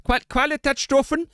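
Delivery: high, fumbling try at "Qualitätsstufen"; halting German pronunciation. Shown as a demonstration. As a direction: stumble into "Qualitätsstufen" with a German accent. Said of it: "so I forget how to say things".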